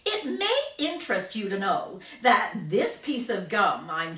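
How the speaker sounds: put-on boastful gum-chewing girl; bratty girl voice. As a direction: show off to the reporters. Violet voiced in story.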